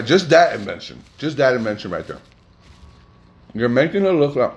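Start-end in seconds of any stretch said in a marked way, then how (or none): 3.5-4.5 talking through a mouthful; chewing while talking. Real, not acted. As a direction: mouth full. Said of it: "I'm chewing".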